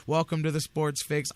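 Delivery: easy, cheerful show opener; smiley happy welcome. Shown as a demonstration. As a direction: greet them like you're glad they came. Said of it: "I like to open, smile, happy".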